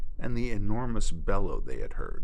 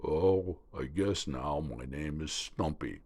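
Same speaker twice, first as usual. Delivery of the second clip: gator voice; 4 semitones lower, 5 dB quieter than usual. Acted. Alligator agrees to help the spoonbill, low and resigned. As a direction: accept it with a sigh.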